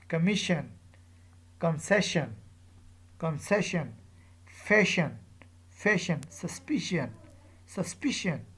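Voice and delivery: syllable before "sion" stressed, exPANsion, comMISsion, susPIcion; measured word list, weight just before "sion" as in PENsion, difFUsion. Shown as a demonstration. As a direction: drill each word with falling ending, MANsion, conCESsion, posSESsion. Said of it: "So here is the stress".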